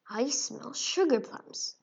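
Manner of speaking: slow, sniffing mouse; sly mouse voice. Acted. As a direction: draw it out like a greedy mouse. Mouse smelling sweets.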